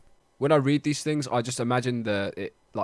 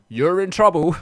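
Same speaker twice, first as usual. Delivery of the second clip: movie trailer voice; 7 semitones higher, 9 dB louder than usual. Pretend. Mock movie tagline.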